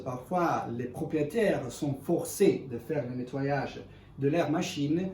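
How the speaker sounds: non-native French speaker; French with a foreign accent. Real, not acted. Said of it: "excusez-moi mon français".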